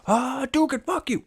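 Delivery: squeaky mock curse.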